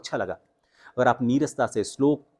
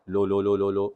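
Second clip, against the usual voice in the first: low pitch drill; 3 semitones lower than usual. Shown as a demonstration. Coach demonstrates the low-pitch drill for students. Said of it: "शुरुआत आप इससे करें".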